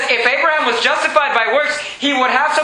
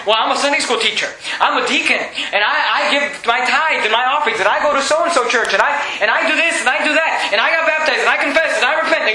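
bragging. Acted. Churchgoer answering a door-knocker about heaven, mildly bragging. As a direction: reel off your credentials like a show-off. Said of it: "They're bragging. They're boasting".

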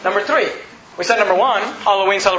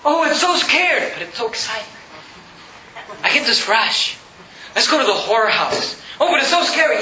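mock thrill seeker.

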